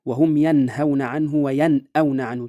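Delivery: slow recitation, clear unmerged n in "ينهون" and "وينأون"; clear izhar. Shown as a demonstration. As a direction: sound the n distinctly before the throat letter in "ينهون". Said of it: "يا أمثلة على ذلك". (إظهار النون بوضوح في "ينهون" و"وينأون" بتلاوة متأنية)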